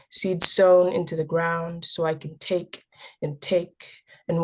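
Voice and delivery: measured verse reading, pausing after each image; poem recitation. Acted. Youth poet reading a poem about immigrant heritage, measured recitation. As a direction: recite your own poem to listeners.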